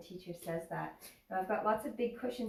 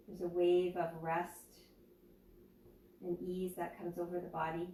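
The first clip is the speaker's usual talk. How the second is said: guided meditation. Acted. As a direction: ease them into stillness, unhurried. Leads a yoga nidra meditation.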